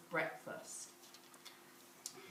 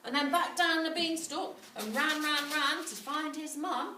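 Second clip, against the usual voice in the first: excited storytelling; 7 semitones higher, 4 dB louder than usual. A narrator's reading. Excited chase narration.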